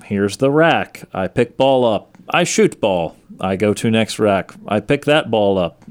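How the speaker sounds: broken-English Eastern European lilt, lightly done; half-hearted Eastern European accent for Steph Curry. Retold or imitated. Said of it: "I put some sort of accent on that".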